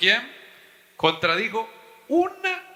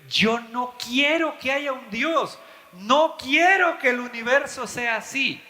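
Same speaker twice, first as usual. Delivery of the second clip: voiced atheist; 5 semitones higher than usual. Pastor voices atheist's refusal.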